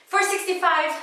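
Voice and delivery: high, loud comic count; comedic monologue. Acted. Passenger counting road signs aloud, high comic call. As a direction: sing out the number high and loud. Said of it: "it was a comedic monologue".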